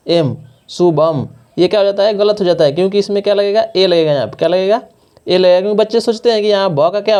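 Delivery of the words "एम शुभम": slow demo. Shown as a demonstration. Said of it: "क्या लिख देंगे".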